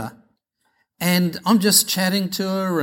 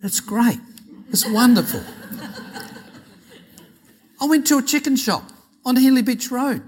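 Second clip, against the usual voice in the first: laughing; 7 semitones higher than usual. Real, not acted.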